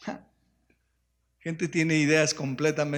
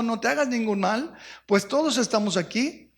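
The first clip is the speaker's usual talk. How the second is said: loud cry; 6 semitones higher than usual. A narrator's reading. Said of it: "clamó a gran voz".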